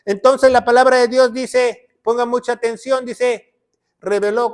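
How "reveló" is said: "reveló" accented on its last syllable; "reveló", with the final O stressed. Shown as a demonstration. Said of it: "con acento en la O".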